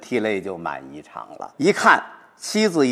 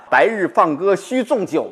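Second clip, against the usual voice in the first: joyful recitation; 8 semitones higher, 3 dB louder than usual. Shown as a demonstration. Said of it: "然后这个时候呢".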